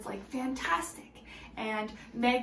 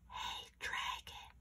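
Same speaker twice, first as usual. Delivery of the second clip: very soft, slow whisper; 13 dB quieter, slower than usual. Acted. Princess testing whether the dragon is asleep, whispering. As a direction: whisper so you won't wake him. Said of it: "Elizabeth whispered very softly".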